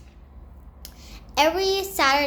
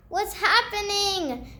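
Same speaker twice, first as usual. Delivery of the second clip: shocked; 6 semitones higher than usual. Retold or imitated. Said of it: "shouted to".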